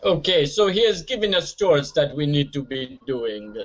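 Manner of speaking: lightly attempted Jamaican accent; bad Jamaican accent. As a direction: have a shaky go at a Jamaican accent. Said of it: "I can't really do a Jamaican accent".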